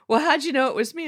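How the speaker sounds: put-on high, bright Valley Girl twang. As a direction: play the valley girl coworker. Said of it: "I'm using my Valley Girl voice".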